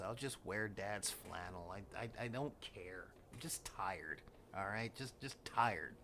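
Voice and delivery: put-on low, soft, tired mumble of a teen; weary teenager. Worn-out teenager brushing off parents, weary. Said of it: "was tired".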